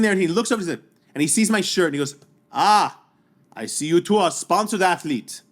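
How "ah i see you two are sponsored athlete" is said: lightly imitated German accent; slow, deliberate greeting in a mild German accent; German athlete. German rival eyeing his shirt, mock German accent. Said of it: "German athlete".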